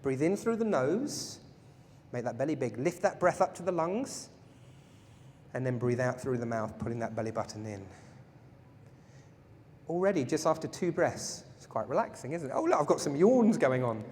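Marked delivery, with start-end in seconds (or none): 0.0-7.9 calm breathing guide. Shown as a demonstration. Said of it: "Let's do that one more time".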